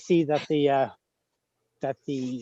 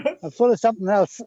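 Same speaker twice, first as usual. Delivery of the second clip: laughing; 6 semitones higher than usual. Real, not acted. Laughing self-deprecating joke.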